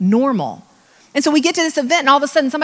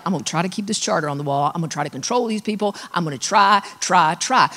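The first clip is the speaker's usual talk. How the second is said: earnest rush; 4 semitones lower than usual. Retold or imitated. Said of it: "who are like".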